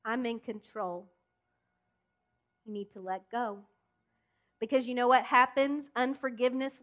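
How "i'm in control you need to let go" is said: calm voice of God. Retold or imitated. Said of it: "what God says".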